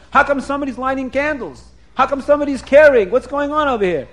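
mock outraged rabbi; retold yelling. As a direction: fire off indignant questions, stumbling over words. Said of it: "the Rav started yelling".

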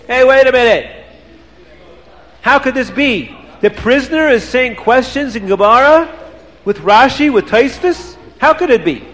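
high, astonished outburst; stunned by the prisoner's answer; amazed. Acted. Rebbe amazed again.

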